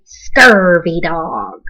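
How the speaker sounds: slow pirate growl of an insult; slow, relished pirate slang; pirate talk. Shown as a demonstration. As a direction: drag it out like a salty sea dog. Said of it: "say real pirate stuff like".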